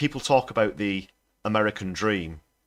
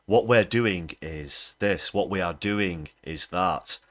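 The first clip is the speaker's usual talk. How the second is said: mock politician phrases; slower than usual. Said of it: "it always follows the phrase".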